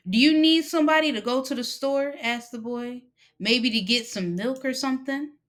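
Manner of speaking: lightly voiced boy anxious to earn trust; eager boy. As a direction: offer to help, eager to please.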